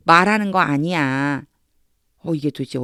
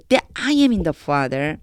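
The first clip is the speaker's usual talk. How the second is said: slow reading; much slower than usual. Shown as a demonstration. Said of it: "한번 해볼게요".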